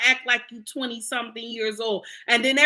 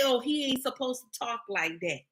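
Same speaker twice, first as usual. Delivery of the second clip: quiet, prissy mock complaint; a quieter mocking voice for the critics; mocking scold; 6 dB quieter than usual. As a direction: imitate the scolding women, softer. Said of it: "Y'all always say".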